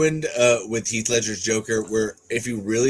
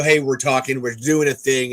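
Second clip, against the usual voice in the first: a British actor's put-on American accent; stereotyped American accent, a touch louder; exaggerated American accent; 3 dB louder than usual. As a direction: lightly parody an overdone American accent. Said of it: "British actors do that American accent".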